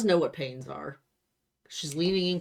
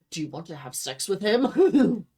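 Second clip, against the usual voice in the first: mocking; 3 semitones higher, 7 dB louder than usual. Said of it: "why does it always have to be".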